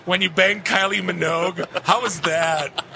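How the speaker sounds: lightly voiced, awkward interviewer bit; a hint of a bumbling fan asking about a memory; Chris Farley. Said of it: "Chris Farley, right?".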